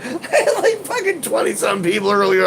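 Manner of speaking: giggling through the words; laughing. Real, not acted. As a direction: laugh while saying it. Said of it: "Someone laughed".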